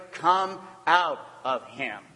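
firm, measured order; spaced-out, solemn firmness; stern command. Acted. Jesus orders the demon out, sternly. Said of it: "Jesus said sternly".

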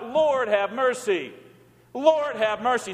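slow, drawn-out liturgical plea; congregational plea. Shown as a demonstration. Preacher leading the church's cry, slow pleading. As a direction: lead the congregation slowly in prayer.

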